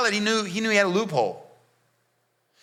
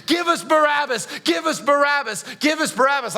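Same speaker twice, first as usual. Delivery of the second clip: crowd shouting; 4 semitones higher than usual. Retold or imitated. The crowd demanding Barabbas from Pilate, a mild chanted shout. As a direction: echo the crowd's chant with a light push. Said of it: "I heard the crowd shout".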